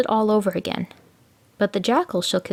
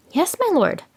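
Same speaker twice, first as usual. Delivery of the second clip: humble jackal; 9 semitones higher than usual. A narrator's reading. Jackal humouring tiger.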